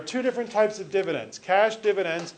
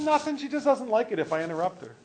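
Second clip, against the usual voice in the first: higher, deadpan punchline; 4 semitones higher than usual. Acted. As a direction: toss off the henpecked husband's excuse. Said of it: "He said".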